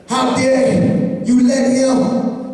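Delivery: preaching at full force. Acted. Preacher daring the congregation to break limits, sung and shouted. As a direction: hammer each line of the refrain home.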